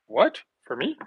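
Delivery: imitating a startled question, rising pitch; retold surprise. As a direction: act out mild disbelief. Retells the stunned man's reply.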